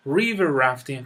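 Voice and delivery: River rafting with river stressed. Shown as a demonstration. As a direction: lean on river.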